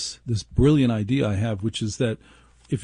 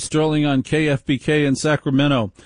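slightly raised, punchy station-ID read; radio host show opener; 3 semitones higher than usual. Acted. Host greeting radio listeners across stations, announcer-style opener.

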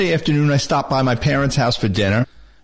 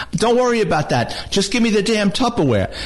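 higher-pitched retold impatient demand; exasperated father; 6 semitones higher than usual. Father demanding the container from his son, exasperated. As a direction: imitate a fed-up dad, raised pitch.

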